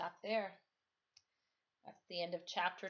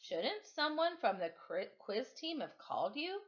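stern teacher; 5 semitones higher than usual. Acted. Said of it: "Her voice could crush bricks".

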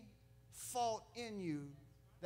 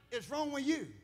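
louder, higher angry retort; angry snap; 7 semitones higher, 6 dB louder than usual. Retold or imitated. Football player angry at a cheap shot. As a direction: snap at the guy who cheap-shotted. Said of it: "looked down and said".

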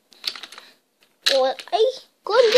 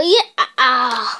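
villain laugh; 6 semitones lower than usual. Acted. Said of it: "laughed the bad guy".

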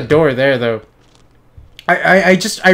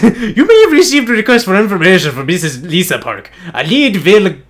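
lightly put-on comic reading voice; funny voice. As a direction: read the letter in a silly voice. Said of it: "I'll do it in a funny face".

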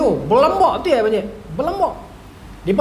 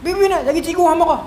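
raised-pitch imitation of father's telling-off; mock scolding yell; 5 semitones higher than usual. Father hurrying child upstairs, mildly yelled scolding. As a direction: mimic an urgent, cross order. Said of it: "Marah kita orang tempik".

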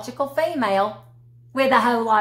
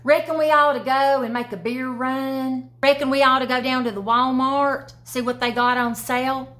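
put-on slightly higher, good-ol'-boy suggestion; good-ol'-boy proposing a Walmart trip; Southern example voice; 4 semitones higher, 3 dB louder than usual. Shown as a demonstration. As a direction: pitch a beer run to a buddy. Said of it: "I'll give you a few examples".

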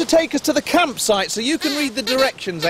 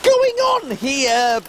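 surprised; 8 semitones higher, slower than usual. Acted. Surprised at intruders.

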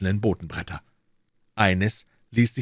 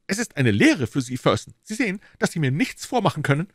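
higher, pompous lecturing tone; an official scolding his subordinate with great dignity; lightly voiced self-important inspector; dignified inspector; 9 semitones higher, 3 dB louder than usual. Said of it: "sagte Lestrade mit großer Würde".

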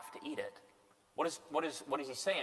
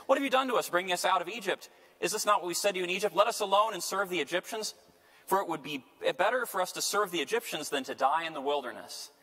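complaining outcry; 5 semitones higher than usual. Retold or imitated. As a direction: hurl the complaint at Moses. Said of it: "the sons of Israel cried out".

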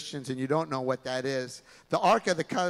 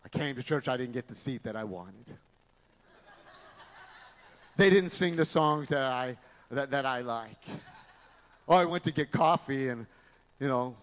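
gloomy pessimist; 4 semitones lower than usual. Acted. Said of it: "a pessimist is someone that says".

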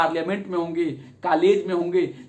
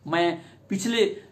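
ordinary talk

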